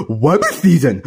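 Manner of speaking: "Rabbit" said as "wabbit", pitched low; low cartoon duck with R turned to W in "Rabbit"; cartoon speech impediment. Cuphead playing Daffy's role in an argument, "Rabbit" as "wabbit". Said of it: "you were so off the speech impediment".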